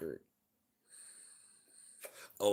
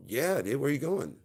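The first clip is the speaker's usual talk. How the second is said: higher, louder mocking dog voice; a dog teasing from outside, pitched up; taunting dog voice; 9 semitones higher, 8 dB louder than usual. Voicing the neighbour dogs taunting.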